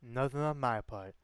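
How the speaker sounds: lazy Texan cowboy drawl. Retold or imitated. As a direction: say it like a laid-back cowboy. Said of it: "I love the cowboy voice".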